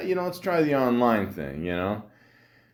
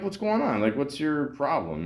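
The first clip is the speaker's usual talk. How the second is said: a pitched-up, baffled demand; exasperated retort; 4 semitones higher than usual. Retold or imitated. Replaying his text to the woman, mock indignant. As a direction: toss back a mock-indignant what's-your-problem.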